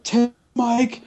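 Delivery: high, slow heckling yell; mock yell. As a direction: yell it from the crowd. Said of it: "I would have yelled out".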